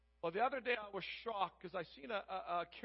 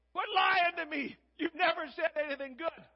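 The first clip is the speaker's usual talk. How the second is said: angry rebuke; 8 semitones higher, 8 dB louder than usual. Retold or imitated. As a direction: snap back at a prophet he distrusts. Angry king rebukes prophet.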